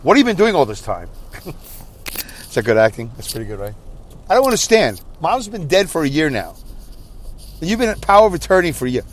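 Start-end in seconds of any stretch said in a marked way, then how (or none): 0.0-1.1 put-on indignant demand; hammed-up angry confrontation; Angry Dave. Brother demanding answers from his sister, mock angry. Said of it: "there's Angry Dave". 4.3-9.0 higher, hammed-up exasperation; mock angry. Brother berating sister over missing funeral plans, mock angry. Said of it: "That's how I'm gonna sound".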